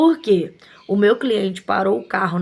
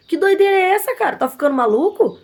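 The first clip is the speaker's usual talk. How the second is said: much higher and louder, exasperated; outraged disbelief; 8 semitones higher, 4 dB louder than usual. Retold or imitated. Shop owner confronting the attendant in her shop, outraged. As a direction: demand if he's lost his mind. Retold scolding climax.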